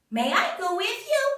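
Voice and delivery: high, loud crowing rooster voice. Acted. The rooster calling out to Jack, high and loud. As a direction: squawk it up like a rooster.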